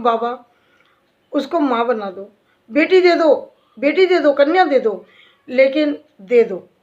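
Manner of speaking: earnest imploring prayer, rising on बेटी दे दो; pleading prayer to Baba. Shown as a demonstration. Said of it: "मैं ऐसे बोलती हूँ".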